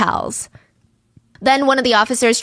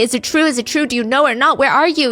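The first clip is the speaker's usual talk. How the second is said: panicked; 4 semitones higher than usual. Retold or imitated. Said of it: "she's screaming, she's nervous".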